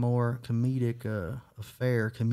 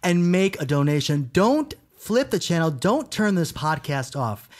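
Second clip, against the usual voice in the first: charity infomercial; 3 semitones higher, slower than usual. Acted. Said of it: "one of those infomercials".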